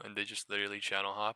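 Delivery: ordinary talk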